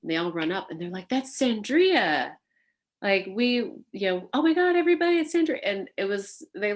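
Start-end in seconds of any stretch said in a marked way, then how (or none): 1.1-2.3 put-on excited kids calling out. Kids calling out her name. 4.3-5.6 high, loud, thrilled squeal; teenage fan shouting to friends at a parade, high and thrilled; starstruck kids shouting. Retold or imitated. Kids spotting her at parade.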